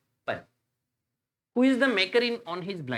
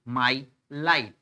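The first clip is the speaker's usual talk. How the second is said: "my light" slow, each word set apart; syllable by syllable; 3 semitones lower than usual. Shown as a demonstration. Teacher counting syllables for students, "my light" one beat at a time. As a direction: pause between "my" and "light". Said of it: "एक सबसे छोटी ध्वनि".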